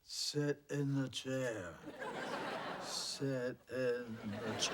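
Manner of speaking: slow, drawn-out spooky voice; ghost voice. Acted. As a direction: moan it like a ghost. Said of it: "Why are you talking like that?".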